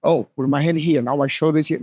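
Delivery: loose, easy self-talk; relaxed. Shown as a demonstration. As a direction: talk it through calmly, breathing. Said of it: "Now you can see, like, you're more relaxed".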